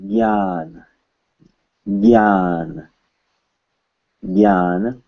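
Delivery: "gyan" as one syllable with hard g and long ah; "gyan", Hindi style, carefully drawn out; Hindi pronunciation. Shown as a demonstration. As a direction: model "gyan" slowly, stretching the ah. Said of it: "this is pronounced in Hindi".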